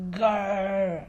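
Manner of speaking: low playful grr; a short frustrated growl. Shown as a demonstration. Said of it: "like this".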